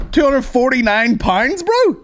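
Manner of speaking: high, slow, disbelieving exclaim; incredulous. Real, not acted. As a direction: stretch it out in shock.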